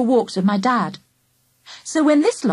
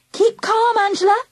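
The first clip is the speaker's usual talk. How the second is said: higher, earnest urging to stay calm; 13 semitones higher than usual. A narrator's reading. Charlie urges scared Angela to keep calm, earnestly. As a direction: press her gently to keep calm. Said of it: "I urged".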